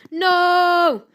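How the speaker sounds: loud, high drawn-out "no"; alarmed cry. Acted. Story reader cries out as a character crash-lands, alarmed cry. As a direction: cry out in dismay.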